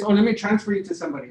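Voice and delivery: fast, offhand handoff line; quick brush-off. Retold or imitated. Agent hurrying a caller off to another line, fast and offhand. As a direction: get rid of the caller quickly. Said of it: "it was like this".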